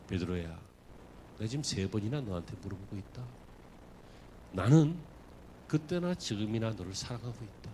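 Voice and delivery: soft, low, tender voice of Jesus; gentle Jesus. Acted. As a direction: speak low and gently, like a loving master. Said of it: "예수님께서 질문을 하시는 거예요".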